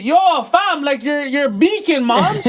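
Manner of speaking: put-on Toronto slang teen. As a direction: brush off mom like a slang-talking teen. Son answers in Toronto slang.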